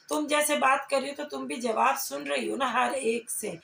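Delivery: ordinary delivery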